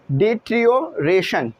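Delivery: "डिट्रियोरेशन" slowly, split before "रेशन"; careful pronunciation demo. Shown as a demonstration. Teacher modelling a hard word for students, careful "डिट्रियोरेशन". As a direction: say "डिट्रियोरेशन" in two measured chunks. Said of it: "इसकी pronunciation सही कर लेना".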